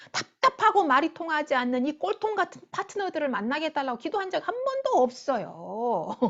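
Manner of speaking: mock-indignant protest, piling up grievances; grumbling complaint. Preacher acts out believers protesting what they never prayed for, grumbling. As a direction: play someone airing a list of unfair burdens. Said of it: "원망하고 불평하잖아요".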